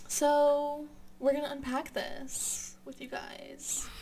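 slow, bright youth pastor voice; lightly put-on youth leader tone; upbeat youth pastor. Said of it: "I sound like a youth pastor".

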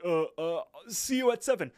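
high, loud, flustered blurting; mock panic. Nervous caller hurrying off the phone with the host, panicked. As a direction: act out a panicked sign-off, pitch leaping up. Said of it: "Muscle Man starts to panic".

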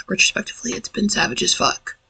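half-whispered aside, a bit fast; hushed aside. Real, not acted. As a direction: drop to a breathy aside. Aside about the year.

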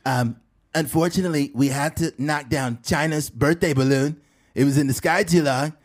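measured, emphatic presidential parody; Donald Trump. Acted. President boasting about China's balloon, Trump impression. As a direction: hold forth in self-satisfied bursts. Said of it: "funny thing about Trump is how he".

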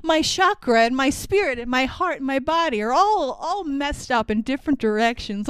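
lightly hammed-up, theatrical line reading; mock the stiff school-play delivery of Wang; a hint of Wang's stagey voice; stagey play acting. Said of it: "Like they're in a fucking play".

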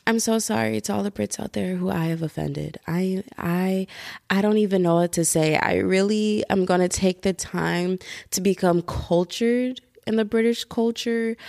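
deliberate, level-pitched public apology; mock apology statement. Podcaster apologizing to offended Brits, mock apology voice note. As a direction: deliver a hammed-up formal apology. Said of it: "apology voice note".

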